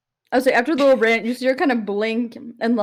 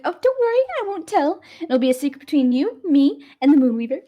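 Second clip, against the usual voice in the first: giddy; 5 semitones higher than usual. Acted. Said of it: "Altair gets very giddy".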